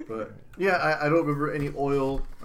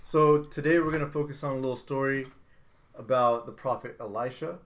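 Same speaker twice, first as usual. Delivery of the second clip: Sunday school teacher intro; preacher voice. Pretend. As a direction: announce it like a preacher. Mock sermon opening.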